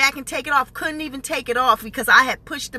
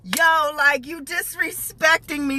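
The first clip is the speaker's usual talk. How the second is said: lightly voiced Jersey girl; a touch of streetwise Jersey girl confrontation; Jersey girl attitude; 3 semitones higher than usual. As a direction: imitate an affronted Jersey girl. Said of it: "I was in my Jersey girl".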